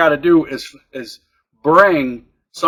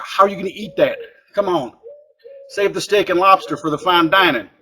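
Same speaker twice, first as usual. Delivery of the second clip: worked up; 3 semitones higher than usual. Real, not acted. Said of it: "I'm getting all worked up here now".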